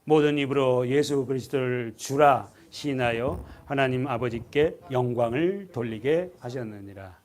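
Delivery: slow, even reading of 모든 입으로 aloud together; congregation reading scripture. Shown as a demonstration. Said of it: "십일 절 읽어보세요". (성경 구절을 함께 천천히 낭독)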